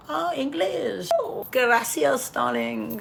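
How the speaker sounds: lilting high put-on foreigner; imitating Italians. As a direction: play an impressed local, stretching the words. Acting out Italians' reaction to the speaker.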